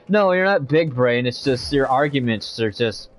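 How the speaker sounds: choppy robotic mic audio. Real, not acted. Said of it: "Your mic is going robotic".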